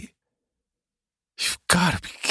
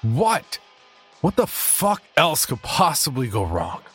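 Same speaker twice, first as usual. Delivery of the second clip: loud, higher cry of frustration; frustrated outburst; 9 semitones higher, 6 dB louder than usual. Acted. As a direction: blurt it out in sheer despair. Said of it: "blurted out, in a moment of pure frustration".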